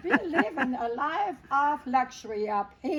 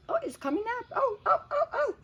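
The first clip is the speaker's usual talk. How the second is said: excited; 11 semitones higher, faster than usual. Retold or imitated. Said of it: "I'm always saying".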